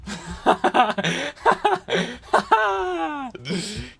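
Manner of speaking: rising burst of laughter; real laughter. Real, not acted. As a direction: laugh it off after the story. Laughing after story.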